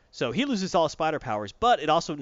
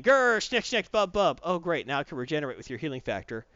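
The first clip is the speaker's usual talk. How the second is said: mock Wolverine. Wolverine jumping on the thing, mock growl. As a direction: play a gruff Wolverine lunging in. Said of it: "he immediately jumps on the thing".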